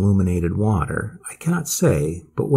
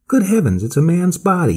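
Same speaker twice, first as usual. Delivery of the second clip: high, excited exclamation; excited cry; 8 semitones higher than usual. A narrator's reading. Swede spots something in the river, excited high cry. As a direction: cry it out high, alarmed by the discovery. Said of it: "he cried excitedly".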